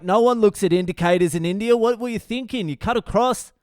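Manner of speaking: high-pitched retold scolding; mock indignant locals. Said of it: "now they all hate me".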